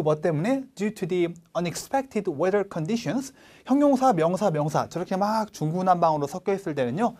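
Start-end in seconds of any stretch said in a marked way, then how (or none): 0.7-3.3 slow, each word read clearly; slow, deliberate reading. Shown as a demonstration. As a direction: read "Due to the unexpected weather conditions" one word at a time. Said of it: "한 단어 한 단어 또박또박 읽어주시면".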